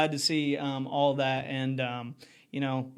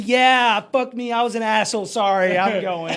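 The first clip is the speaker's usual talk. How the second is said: mock sheepish; 3 semitones higher, 5 dB louder than usual.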